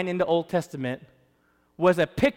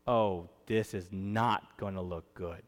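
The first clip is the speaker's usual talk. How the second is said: low worried aside; 10 semitones lower, 8 dB quieter, slower than usual. Acted. Jew reading the prophecy.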